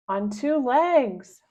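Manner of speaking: loud, slow, spaced-out yell. Acted. Mom to dog-playing daughter, slow loud yell. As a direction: mom yells the rule. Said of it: "my mom yells".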